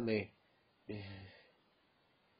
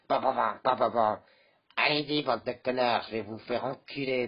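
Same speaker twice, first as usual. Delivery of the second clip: game rage; 4 dB louder than usual. Acted. Yelling at a video game.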